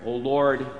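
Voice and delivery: ordinary talk, nothing marked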